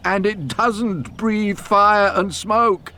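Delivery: slow, amused telling with a chuckle; laughing. A narrator's reading. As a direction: tease him gently, laughing. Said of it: "continued, laughing".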